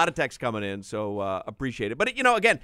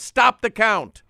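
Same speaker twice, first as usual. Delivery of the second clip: loud, raised-pitch drawn-out order; mock yell; 5 semitones higher, 7 dB louder, slower than usual. Host mimics rival looking at the numbers, yelling. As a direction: yell it out like a boss calling a halt. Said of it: "and he yells".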